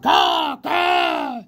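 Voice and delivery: high, loud cawing crow; Pellegrina as a crow. A narrator's reading. Dazed rabbit hears the crow as his old friend, loud high caws. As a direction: caw like a harsh crow. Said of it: "said Pellegrina Crow".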